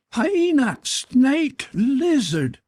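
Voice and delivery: furious high screech; enraged scream. A narrator's reading. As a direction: scream each name in rage and hatred. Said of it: "he screamed".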